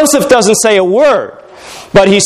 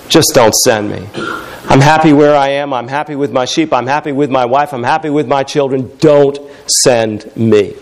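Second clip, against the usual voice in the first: pleading Moses; 8 semitones lower than usual. Retold or imitated. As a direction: beg off the mission like a reluctant old shepherd. Moses begging God not to send him.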